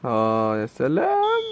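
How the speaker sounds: slow, drawn-out sarcastic sigh; sarcastic drawl. Real, not acted. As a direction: draw it out in disbelief. Sarcastic reaction to conceded goal. (سخرية ممطوطة)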